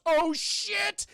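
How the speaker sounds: he just remembered the booking; mock panic at a forgotten reservation; sudden realisation. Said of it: "He goes".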